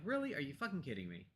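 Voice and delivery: mild retold exasperation, not angry; exasperated disbelief. Retelling to viewers how she grumbles at her computer, mild mock exasperation. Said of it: "Not angry, not, like, hitting the table".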